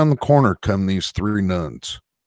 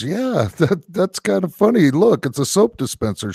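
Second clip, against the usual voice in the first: giggling through the words, pitched up; laughing nun; 9 semitones higher than usual. Retold or imitated. Nun laughing at the naked monk, mock giggle. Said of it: "the nuns start laughing".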